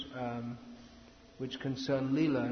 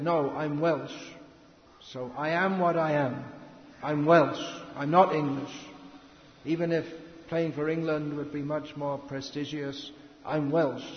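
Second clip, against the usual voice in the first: louder, firm and emphatic declaration; proud insistence; 5 dB louder than usual. Retold or imitated. Speaker voicing the Welsh footballer refusing England, proud and firm. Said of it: "But he said".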